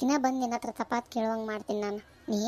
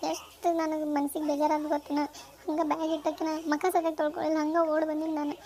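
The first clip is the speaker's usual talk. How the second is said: upset, raised-pitch complaint; tearful; 4 semitones higher than usual. Acted. Upset girl reproaches the elders for not telling her, tearful. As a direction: plead as if you came running in tears. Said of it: "ಯಾಕ್ ಅಳ್ಕೊಂಡ್ ಬಂದಲ್ಲ".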